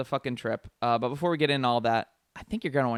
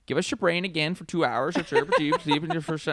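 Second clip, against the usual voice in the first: hammed-up, garbled Icelandic accent; mock Icelandic accent; 2 semitones higher than usual. Host rereading an Icelandic tagline, in a silly mock Icelandic accent. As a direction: fake an Icelandic accent that slides into nonsense. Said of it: "I should say that differently".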